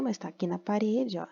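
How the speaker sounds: "mas tá aqui na parede" whispered like a little secret; playful whisper to the class. Acted. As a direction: let the children in on it in a whisper. Teacher aside to children.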